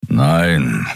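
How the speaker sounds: low beastly growl; low growling denial. Acted. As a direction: bite the word off. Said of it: "knurrte er".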